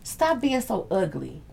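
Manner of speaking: soft, slow retold plea. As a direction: quietly tell someone off, drawing it out. Retold plea to angry man.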